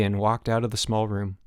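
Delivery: ordinary delivery, nothing marked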